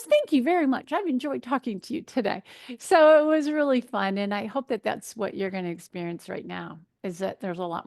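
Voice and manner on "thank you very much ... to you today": higher-pitched grateful goodbye; retold grateful thanks. Imitating airport woman thanking the dietitian, grateful. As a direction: lightly imitate a pleased stranger's thanks.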